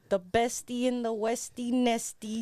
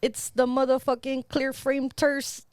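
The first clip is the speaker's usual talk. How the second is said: podcast intro shout; 3 semitones higher, 11 dB louder than usual. Acted. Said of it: "You wanna try again?".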